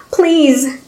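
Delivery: high desperate please; pleading cry; begging. Acted. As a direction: plead urgently. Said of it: "Guillaumard begged".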